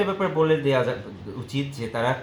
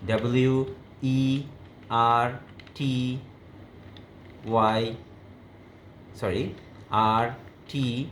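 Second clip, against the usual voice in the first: calling out letters; much slower than usual. Shown as a demonstration. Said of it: "উচ্চারণ করে করে খেয়াল করতে হবে".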